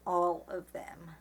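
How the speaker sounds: "all" stretched out for contrast; stress on all. Shown as a demonstration. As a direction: slowly set apart the word "all". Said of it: "Notice how he said "some of them" and not".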